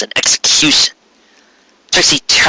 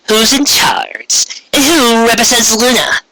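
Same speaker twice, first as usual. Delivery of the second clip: higher, slow, careful unicorn; Trixie's voice; 10 semitones higher, slower than usual. Acted. Unicorn answering the dangerous queen, careful and slow. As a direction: measure each word before the queen.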